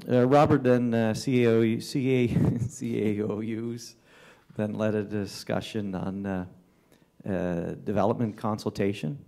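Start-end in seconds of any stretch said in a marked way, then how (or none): 1.1-3.9 stumbling over the letters, restarting with a laugh; tongue-tied. Real, not acted. Councillor stumbles over the officer's title while reporting, tongue-tied. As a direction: trip on the initials and laugh it off. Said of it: "I'm tongue-tied on that one".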